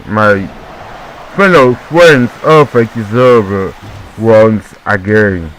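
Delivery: lightly put-on Englishman accent, drawn-out ending. Shown as a demonstration. Commentator addressing his fellow friends in a mock Englishman accent. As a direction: address the audience as an English gentleman. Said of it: "This is the Englishman accent".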